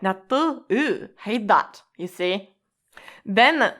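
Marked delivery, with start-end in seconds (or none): 0.0-1.8 grossed out. Shown as a demonstration. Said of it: "something like".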